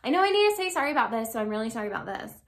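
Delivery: rattled off fast, uncaring; emotionless mock apology. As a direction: toss off a hurried sorry that means nothing. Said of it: "like, emotionless and, like, you don't care".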